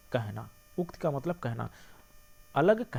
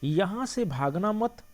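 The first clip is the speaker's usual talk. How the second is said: slow यहाँ से भागना मत, break after मत; drawn-out phrase closing firmly on मत; pause after मत; 3 semitones higher, slower than usual. Shown as a demonstration. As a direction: keep मत with भागना, then stop. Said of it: "comma".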